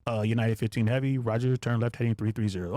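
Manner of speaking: low, even controller reading a clearance; flat routine ATC call, pitched low; routine radio controller. Retold or imitated. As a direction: rattle it off like routine tower chatter. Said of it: "everyone's talking like this".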